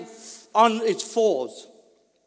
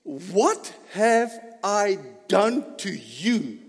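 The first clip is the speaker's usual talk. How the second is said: pleading donkey; much slower than usual. Retold or imitated. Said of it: "The donkey telling me this".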